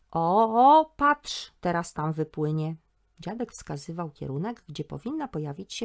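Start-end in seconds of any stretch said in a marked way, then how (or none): 0.1-2.8 excited pointing out. Acted. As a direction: point and call out the seal. Grandpa pointing out the seal.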